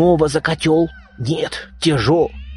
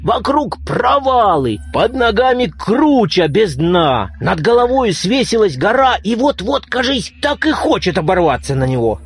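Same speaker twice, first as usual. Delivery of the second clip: frightened; 5 semitones higher than usual. Acted. Grandpa frightened in dark night.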